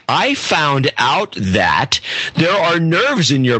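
slow, deliberate mock reading. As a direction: drag it out like the ad. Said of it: "the way she starts off saying".

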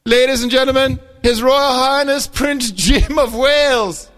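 grand mock-royal introduction, laughing; announcer voice.

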